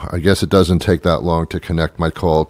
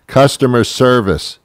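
shouting into phone; 5 semitones higher than usual. Retold or imitated. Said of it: "shout that into the phone".

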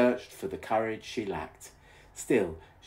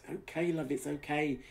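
murmured; 8 semitones higher than usual. A narrator's reading. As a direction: soothe her gently. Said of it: "he murmured".

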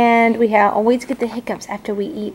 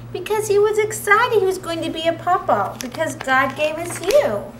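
excited then tender; 6 semitones higher than usual. Acted. Mother bear excited then tender.

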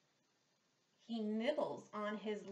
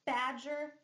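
teacher modelling badger; slow clear badger; 3 semitones higher, 6 dB louder than usual. Shown as a demonstration. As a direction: badger said loud and slow, the B sound hit hard. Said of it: "Let's try".

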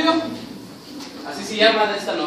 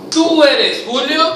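slowly declaimed, pitched-up question; scripted question; 4 semitones higher, slower than usual. Shown as a demonstration. Director feeds actors their first line, slow theatrical question. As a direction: ask it slow and higher, like a stage line. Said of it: "a la cual ustedes dicen".

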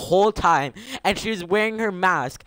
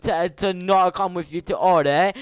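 mocking friends' voice; 2 semitones higher than usual. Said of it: "And then we're like".

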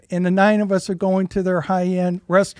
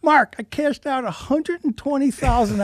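projected shouting; 5 semitones higher than usual. Retold or imitated. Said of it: "he's basically screaming at him".

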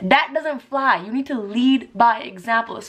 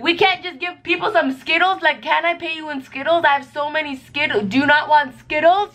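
higher, wheedling cheapskate voice; cheapskate pleading; 6 semitones higher than usual. Pretend. Cheap boss offering workers Skittles, wheedling. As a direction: bargain sweetly to pay in candy. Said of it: "I'm such a cheap person where I'm like".

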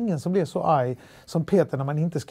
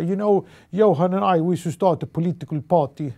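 put-on Swenglish with Halland accent; 3 semitones higher, 5 dB louder than usual. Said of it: "svengelska med halländsk dialekt".

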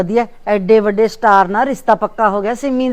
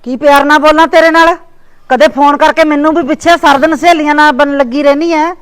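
sharp, louder scolding of the niece; angry scolding; 3 semitones higher, 5 dB louder than usual. Acted. Aunt scolding her niece for never calling, angrily. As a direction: snap back at her, offended.

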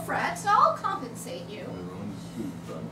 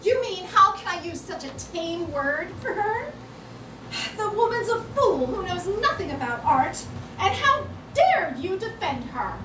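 angry; 5 semitones higher than usual. Acted. Heated quarrel over art.

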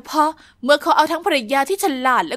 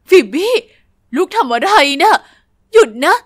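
stern shout; 7 dB louder than usual. Acted. Mother shouts at daughter.

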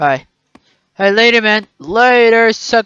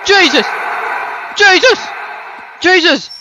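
startled exclamations; 5 semitones higher than usual. Real, not acted. Startled repeatedly by the ghost.

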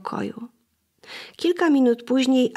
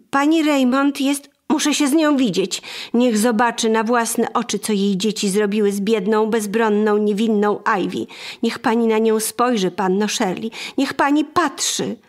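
raised, indignant complaint at the door; angry lady. Acted. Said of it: "zagniewana pani".

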